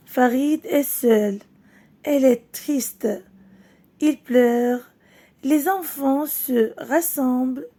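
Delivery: slow, clear storybook reading for pupils; reading to children. Acted. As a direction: read it out gently to the class, word by word. Final rereading of story.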